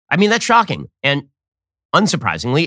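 normal talking voice

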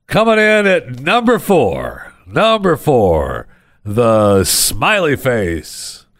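drawn-out game show reveal; countdown announcer. Acted. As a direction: announce it like a top-five countdown.

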